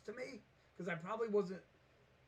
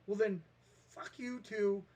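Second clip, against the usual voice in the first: retold anger; 5 dB louder than usual. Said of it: "I got so mad".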